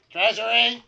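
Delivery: high shrill shout; gnome yelling. Acted. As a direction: yell it high like a frantic gnome. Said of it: "He's like".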